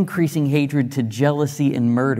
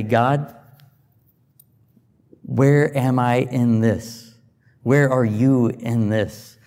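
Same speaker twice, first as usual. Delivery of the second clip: prayerful plea. Shown as a demonstration. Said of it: "step back and say".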